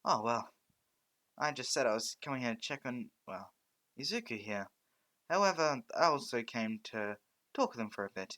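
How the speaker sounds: a touch of the booming host, easing off; President Mike. Acted. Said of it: "He says".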